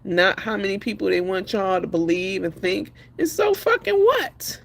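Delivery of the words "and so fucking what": high, slow, defiant challenge; slow, high, so-what defiance. Real, not acted. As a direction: dare them to judge you. Defiant about borrowed money.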